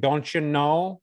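a light Minnesota-Fargo lilt on "Don't you know?"; lightly imitating a Fargo accent. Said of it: "beautiful accent".

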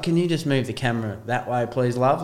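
retold cool-as-a-cucumber request; quick, offhand, calm and polite; Steve Irwin. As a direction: imitate someone casually unbothered, talking to the camera operator. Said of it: "as cool as a cucumber".

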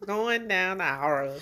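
laughing. Acted. Repeating joke line while laughing.

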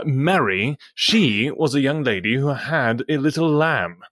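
British accent. Shown as a demonstration. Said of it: "in your best accent".

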